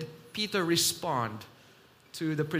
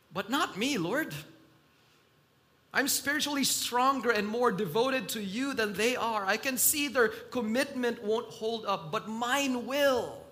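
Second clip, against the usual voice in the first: acted boast, raised in pitch; boastful; 4 semitones higher, 4 dB louder than usual. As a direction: proudly set yourself above the others. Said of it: "these boastful statements".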